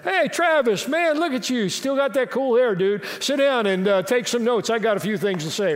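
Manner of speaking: high, buddy-like hologram voice; hologram greeting. Pretend. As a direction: play the future hologram pastor greeting a young friend. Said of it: "he'll come visit me and there will be a hologram".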